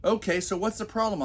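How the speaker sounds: high, airy dismissive question; lightly voiced smug husband; mock casual big shot. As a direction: brush off her worry like a rich man. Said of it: "I ask".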